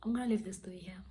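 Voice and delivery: soft, quick, near-whispered sign-off; hushed sign-off. Real, not acted. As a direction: slip it out quickly under the breath. First, quiet take of sign-off.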